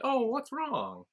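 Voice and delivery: high, drawn-out fake concern; mock taunting. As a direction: tease a rival with feigned sympathy. Imitating taunt while holding figurine.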